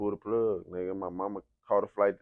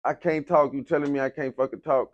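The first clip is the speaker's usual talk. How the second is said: louder, higher, fed-up retort; angry rant; 4 semitones higher, 5 dB louder than usual. Retold or imitated. Patient with a tube in his throat cursing at the nurse, angry. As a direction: snap at her in frustration. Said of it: "I'm like".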